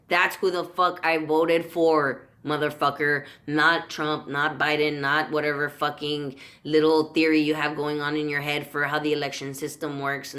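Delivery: real angry outburst at the voters; angry rant. Real, not acted. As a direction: let the anger boil over at the voters. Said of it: "I'm getting too angry".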